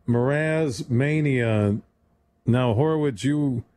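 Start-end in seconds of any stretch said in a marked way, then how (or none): 0.1-1.8 Mraz Mania stretched slow and grand; drawn out. Shown as a demonstration. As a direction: hype "Mraz Mania" like a title. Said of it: "Mraz is coming up".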